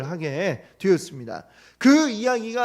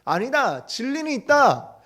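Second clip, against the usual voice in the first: firm declaration; 6 semitones higher than usual. Retold or imitated. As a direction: declare it boldly against mockers. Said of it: "이렇게 얘기하면".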